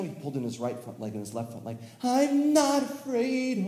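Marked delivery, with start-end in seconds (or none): 2.0-3.6 much higher, louder, slow shout; brave shout. Acted. Tommy tucking in his legs, high brave shout. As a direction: shout your courage, slowly.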